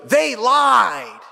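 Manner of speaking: put-on high, drawn-out kid's protest; child's indignant outcry. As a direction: imitate a child crying foul. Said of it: "And he goes".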